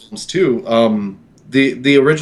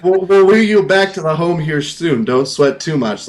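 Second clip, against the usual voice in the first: higher, teasing nursing-home voice; mock carer; 3 semitones higher than usual. Teasing grumpy Jason, mock nursing-home carer. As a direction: talk him down like a frail old man.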